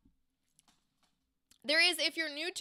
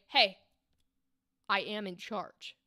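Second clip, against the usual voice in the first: firm warning; 4 semitones lower than usual. Shown as a demonstration. Coach demoing the second, firmer read of the line. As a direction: assert control with a warning edge. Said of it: "to a".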